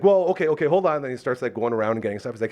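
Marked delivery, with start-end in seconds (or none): 0.0-1.0 higher, louder placating voice; mock-flustered hold-on; flustered staffer. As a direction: imitate someone caught off guard.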